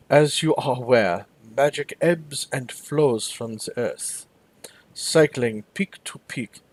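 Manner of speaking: put-on slow, deep German accent, relishing each vowel; German envoy tasting every word, slowly. German envoy briefs the committee in a slow German accent. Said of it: "Brackhaus speaks slowly in a deep, melodious German accent".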